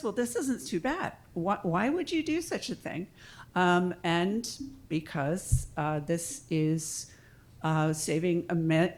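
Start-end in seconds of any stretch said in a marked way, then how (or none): 0.0-3.1 higher-pitched imitation of converted skeptics; pitched-up retelling of mild surprise; mildly surprised quote. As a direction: lightly voice a doubter won over.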